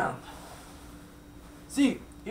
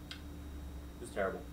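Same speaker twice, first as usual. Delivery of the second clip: slow, much softer, lower whisper; mock tragic whisper; 11 semitones lower, 13 dB quieter, slower than usual. A narrator's reading. Narrator whispers the sad turn of the story, slowly and much softer. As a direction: whisper it like a grim ending.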